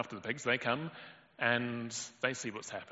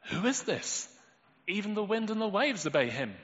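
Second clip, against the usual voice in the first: high, loud astonished gasp of a question; awed fear; 10 semitones higher, 5 dB louder than usual. Acted. Disciples asking each other, high with frightened awe. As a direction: voice of terrified disbelief. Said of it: "they asked each other".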